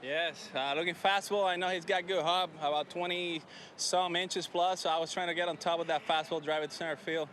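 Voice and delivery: breathless after the celebration; out of breath. Real, not acted. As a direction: talk while catching your breath. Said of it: "I'm running out of breath right now".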